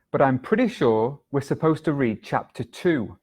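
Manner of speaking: breathy whisper to yourself; hushed murmured recall. Shown as a demonstration. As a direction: whisper the rest of the line. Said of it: "I remember".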